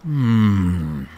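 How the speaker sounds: chewing while humming; humming through a mouthful of cereal; mouth full. Real, not acted. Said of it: "I'm gonna eat one more Chex".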